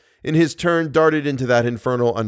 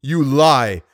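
shouted; 4 dB louder than usual. Acted. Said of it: "shouted the Persian".

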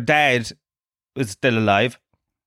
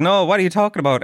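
incredulous reply; 7 semitones higher, faster than usual. Retold or imitated. Wife's incredulous reply, retold.

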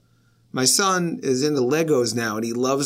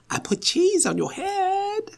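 put-on very high, slow little-kid voice; squeaky, drawn-out imitation of a little boy; mischievous small son; slower than usual. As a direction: imitate a child proudly confessing mischief. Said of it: "He was like".

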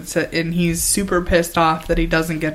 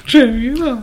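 higher, mock Irish pronunciation; Irish accent; 6 semitones higher than usual. Co-host mimicking another's tribunal, higher mock Irish accent. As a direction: echo it in a playful Irish accent. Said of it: "That was more Irish".

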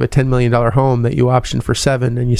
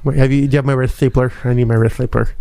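movie-character impression. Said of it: "it's a great movie".

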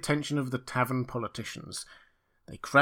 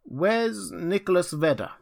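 raised, searching question; bewildered old Rip; 7 semitones higher than usual. A narrator's reading. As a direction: call out for a missing friend. Rip inquires after his old friend.

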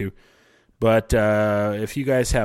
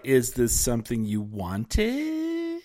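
imitating strangers; 5 dB quieter, slower than usual. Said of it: "they're like".

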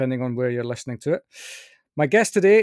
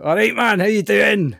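higher, louder broad Scottish greeting; broad Scottish accent; 5 semitones higher, 5 dB louder than usual. Retold or imitated. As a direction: revert into thick Scottish. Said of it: "just revert back into".

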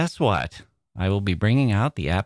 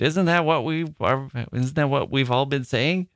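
puzzled, rising questions; imitating a bewildered friend; confused; 2 semitones higher than usual. Friend checking what everyone has been saying, confused. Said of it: "he was a little confused".

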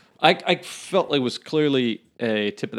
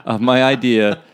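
Shark Tank pitch; 4 dB louder than usual. Pretend.

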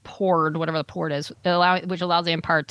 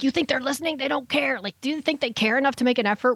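pitched-up retelling of a prisoner; a lightly higher prisoner voice; voiced Cassian; 6 semitones higher than usual. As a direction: raise the voice high to play Cassian.

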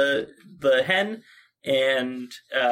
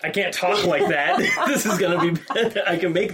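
duck voice; 4 semitones higher than usual. Shown as a demonstration. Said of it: "I can't talk with that noise".

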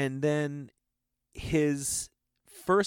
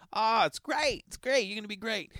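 high, airy imitation of an eccentric director, enthusing; David Lynch impression; 11 semitones higher than usual. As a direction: lift it way up, cheerful and odd. Quoting David Lynch's encouragement.

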